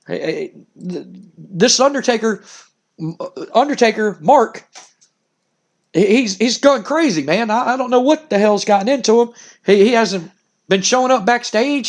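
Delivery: a hint of a flustered wrestler, stammering; rattled wrestler. Wrestler protesting to the detective, lightly flustered. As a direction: stumble over the words like a nervous man.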